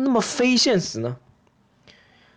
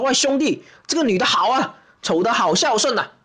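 mock enthusiasm; 4 semitones higher than usual. Mock praise to his friend.

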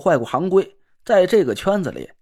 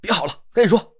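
mild roar; faster than usual. Acted. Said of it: "一声就吼了起来".

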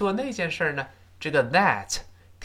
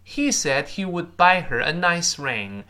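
model reading; 4 semitones higher than usual. Shown as a demonstration. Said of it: "本文中说".

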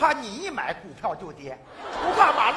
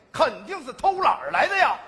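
laughing shout; 3 semitones higher, 5 dB louder than usual. Acted. Comic explanation, shouted.

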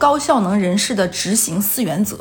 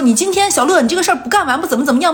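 imitating a ranting boss; 4 semitones higher than usual. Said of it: "无能狂怒".

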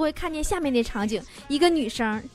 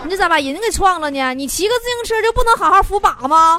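louder teasing scold through laughter; mock scolding; 3 semitones higher, 5 dB louder than usual. Host teasing a listener who hit someone, louder mock scold. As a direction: scold him loudly while half laughing.

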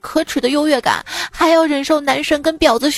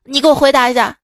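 yelling teacher; 3 dB louder, faster than usual. Acted. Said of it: "老师又吼道".

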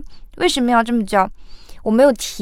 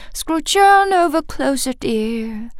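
quick turn; slower than usual. Shown as a demonstration. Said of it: "非常快".

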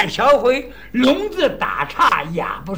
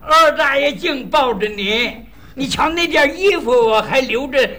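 put-on old man's voice; 2 semitones higher than usual. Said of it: "这拍老腔儿".

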